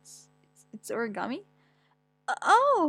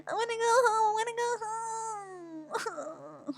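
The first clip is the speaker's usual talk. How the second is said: put-on crying child; 10 semitones higher, slower than usual. Child crying while getting the shot, higher and fading. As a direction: whimper it out like a scared kid.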